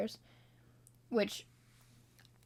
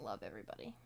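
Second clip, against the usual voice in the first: fake preachy; 11 semitones lower, 14 dB quieter, faster than usual. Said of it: "fake, preachy type".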